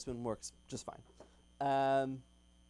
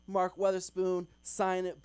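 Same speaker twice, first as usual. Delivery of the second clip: bright, raised and louder, very proper; official white-guy voice; 5 semitones higher, 6 dB louder than usual. Retold or imitated. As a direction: sign off like a polished professional. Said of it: "it's very official".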